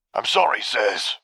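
slow, insincere apology; a drawn-out, hollow sorry; not really sorry. A narrator's reading. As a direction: say sorry without meaning it. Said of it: "sounding not particularly sorry at all".

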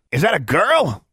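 loud, high creature jeer; high-pitched, loud taunt; sneering. A narrator's reading. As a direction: sneer it as a mocking pet. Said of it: "sneered Honey".

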